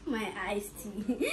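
laughing. Real, not acted. Laughs at iced tea.

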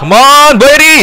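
high, loud cheering yell; real shout at a striker; excited shout. Real, not acted. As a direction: yell it high, urging the player on to score. Urging player on during attack.

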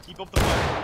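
loud unvoiced command; shouting orders. Real, not acted. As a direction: shout over the guns. Commander shouting over gunfire.

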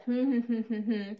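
string of short hummed "hmm"s; imitated uncomprehending hum. Retelling her reply to an Estonian tattooist, mock agreeing hums. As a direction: hum along blankly, as if understanding nothing. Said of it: "And I said".

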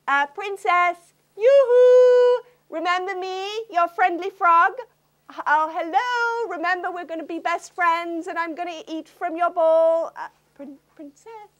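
high calling frog. Acted. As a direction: sing out like a friendly frog. Frog calls after the princess.

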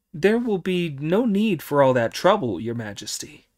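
high little devil voice; squeaky eager minions. Acted. Little devils answer Monkey.

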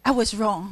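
"wrong" said heavily and falling; heavy on wrong. Shown as a demonstration. Teacher demonstrating the angry last line, "wrong" heavy. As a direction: let "wrong" fall with full weight. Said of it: "wrong这个音就很自然，就很重".

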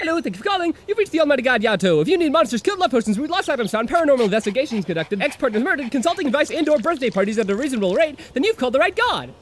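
brisk salesman voicemail greeting; cheesy business answering message; phone ad pitch. Acted. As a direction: sell your services like a recorded hotline message.

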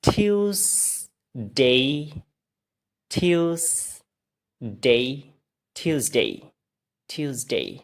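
"টিউসডে" as tyoos-dei, split, then whole; very slow rising "টিউসডে" twice, then joined and falling; practice drill. Shown as a demonstration. Teacher leads repeat practice, "টিউসডে" stretched then joined. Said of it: "এবার আবার practice করি".

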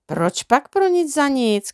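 slow, calm and unruffled; calm reply. A narrator's reading. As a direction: answer him calmly, taking your time. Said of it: "klidně odpověděl". (klidná odpověď, pomalu)

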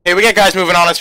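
urgent shout, pitch up; shouted warning. Real, not acted. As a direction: call it out hard. Repeated combat warning.

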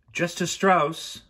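high, drawn-out call. A narrator's reading. Crew member summoning the judge backstage, calling out slowly. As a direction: sing out the name slowly. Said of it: "a voice called".

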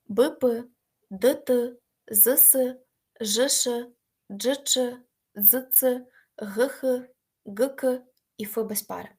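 each pair of letters punched separately; letter-pair drill. Shown as a demonstration. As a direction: dictate the pairs for the class to echo. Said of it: "І ще раз, будь ласка, повторіть". (диктує пари букв для повторення)

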